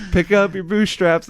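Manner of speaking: loud, high mock order; hard-leader act. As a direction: imitate a tough leader yelling at kids. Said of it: "they would get really hard".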